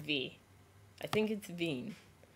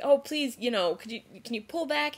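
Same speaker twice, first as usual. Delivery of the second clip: imitated high-pitched plea; pleading; 5 semitones higher, 5 dB louder than usual. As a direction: beg a driver, pitched up. Helper begs driver to stop.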